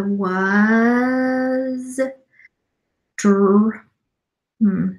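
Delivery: halting word-by-word reading, sounding out; staccato. Shown as a demonstration. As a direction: read like a struggling new reader. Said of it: "read a paragraph to you in a staccato word-by-word pace".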